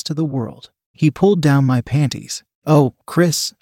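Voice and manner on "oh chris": a mild, narrated moan. Acted. Narrator responding to Chris, mildly moaned. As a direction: let a touch of moan into the words. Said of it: "I moaned".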